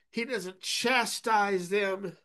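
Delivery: slow, weighted chastise; slow emphasis. Shown as a demonstration. Preacher stressing Jesus's gentleness, slow emphasis. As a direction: drag out chastise. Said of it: "slowed emphasis".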